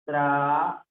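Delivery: "Traería" split tra-e-rí-a with pauses; syllable separation. Shown as a demonstration. Teacher showing how it separates, "Traería" in separate syllables. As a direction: break "Traería" into held syllables. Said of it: "Se separa".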